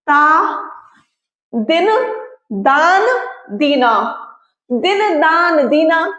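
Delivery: ता, दिन, दान, दीना said one by one with pauses; sounding out words. Shown as a demonstration. Teacher sounds out similar words for class. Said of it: "बोलने में एक जैसे लग रहे हैं".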